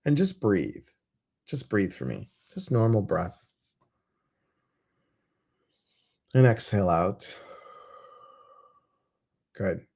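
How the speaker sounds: unhurried breathing guide with long pauses; guided meditation. Acted. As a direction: lead them gently through each breath, leaving space between phrases. Leads guided breathing exercise.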